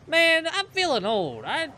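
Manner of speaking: high, loud hammed-up wail; mock despair. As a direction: overplay feeling ancient. Mock lament about age.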